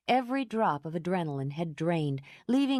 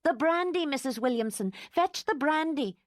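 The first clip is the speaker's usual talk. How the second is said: high giddy mock echo; laughing mimicry; 10 semitones higher than usual. A narrator's reading. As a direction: parrot the order while laughing. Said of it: "wild laugh".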